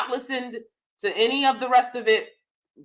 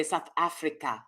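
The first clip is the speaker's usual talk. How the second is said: British accent attempt; 6 semitones lower, 10 dB quieter than usual. Shown as a demonstration. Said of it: "a British person would say".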